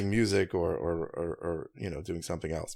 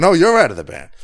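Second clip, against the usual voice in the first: high, loud shouted retort; imitating a full-voiced yell back; retold screaming match; 8 semitones higher, 11 dB louder, faster than usual. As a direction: top the other shout, pitch jumping up. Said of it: "screaming match".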